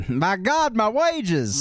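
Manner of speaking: high, hammed-up cry of dismay; mock anguished wail. Joking with co-host about stolen money, mock wailing. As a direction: wail it like a melodramatic victim. Mock outrage at garnished pay.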